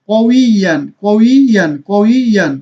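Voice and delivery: কউইয়ান said distinctly, ending in a clear -yan; Quranic word recitation. Shown as a demonstration. Teacher reciting the word for students to repeat. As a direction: repeat কউইয়ান for the class to copy. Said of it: "বলুন".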